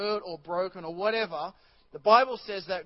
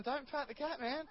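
much softer, weary warning; mock quiet warning; 6 semitones higher, 10 dB quieter than usual. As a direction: mutter the warning. Friend warning him.

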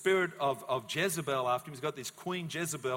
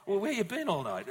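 wife snapping at her husband, raised and high; the wife demands where he has been all night, sharp and raised; mock angry wife; 7 semitones higher, 7 dB louder than usual. Wife confronting husband coming home.

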